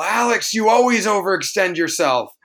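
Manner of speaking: mock yell. Imitating Jeremy interrupting to yell at Alex. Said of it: "he would interrupt me right now and yell".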